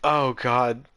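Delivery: crying laughing. Real, not acted. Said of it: "I'm actually crying".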